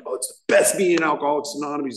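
high, fast mock enthusiasm; all fired up. Imitating a member raving about a morning meeting, fired up. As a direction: gush like an eager convert. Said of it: "He's all fired up".

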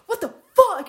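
loud, high laughing outburst; shocked outburst. Retold or imitated. Reacting to the roommate's prank, loud laughing outburst. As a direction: blurt it out half laughing.

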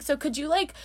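mock-whiny plea; whiny customer. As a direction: imitate a whiner asking a favor. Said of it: "she was a whiner".

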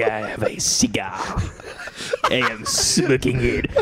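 put-on French accent. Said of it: "sound like Puss in Boots".

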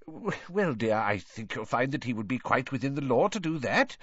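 nervous excuse. Acted. Husband nervously excuses himself.

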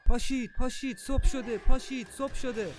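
high, loud wake-up call; shouting. Acted. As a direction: shout to rouse everyone from sleep. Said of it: "شروع کردم به داد زدن".

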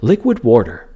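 "water" with an r in it, "warter"; Neil deGrasse Tyson. Retold or imitated. Fan mimicking a TV scientist's odd "water", r added before the t. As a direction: say "liquid water" as "liquid wawr-ter". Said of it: "he pronounces it".

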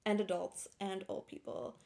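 speaking with a lisp; lisping through a sore tongue. Real, not acted. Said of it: "she has a lisp".

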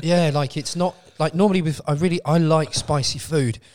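cracking voice from hot sauce; voice breaking. Real, not acted. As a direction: let the voice crack and strain. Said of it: "Your voice is breaking".

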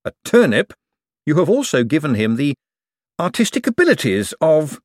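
politely exasperated objection; Moist reasoning carefully. Acted. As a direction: spell it out with pauses before each awkward word.

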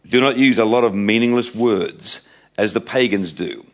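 deliberate, emphatic Bible reading; Scripture reading. Acted. Preacher reading Jesus' words on prayer to his church, deliberate and emphatic. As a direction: read it out with weighty pauses between phrases. Reads Scripture aloud to congregation.

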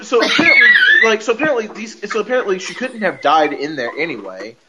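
laughing through the words; giggling while talking. Real, not acted. Laughing while recapping a plot hole.

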